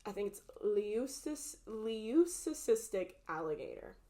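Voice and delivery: talking while chewing gum. Real, not acted. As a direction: speak with gum in your mouth. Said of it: "let me get rid of my gum".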